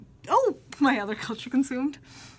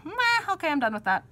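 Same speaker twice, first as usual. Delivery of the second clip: bored shrug; 8 semitones higher than usual. Retold or imitated. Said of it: "then I go".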